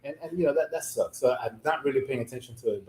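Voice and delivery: talking around a cigar; words muffled by a cigar; cigar in mouth. Real, not acted. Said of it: "now I gotta relight".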